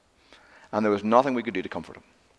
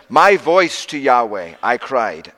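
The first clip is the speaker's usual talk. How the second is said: "My voice" put first, slow and loud; slow it down, punching "My voice"; emphatic reading; 5 dB louder, slower than usual. Shown as a demonstration. Preacher correcting his emphatic Hebrew reading, weighted.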